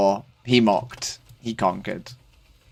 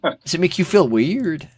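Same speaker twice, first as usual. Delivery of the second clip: slow, higher put-on Irish accent; 5 semitones higher than usual. Streamer teases a friend about it, slow Irish accent. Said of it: "Irish accent".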